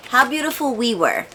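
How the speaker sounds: quick, sure, falling on the title; confident correction. Real, not acted. Booktuber settling on the right title, confidently. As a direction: land the right title firmly. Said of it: "Oh, which one is it?".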